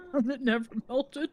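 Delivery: exaggerated mimicking voice; mock echo. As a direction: parrot the complaint in a silly voice. Echoes complaint in put-on voice.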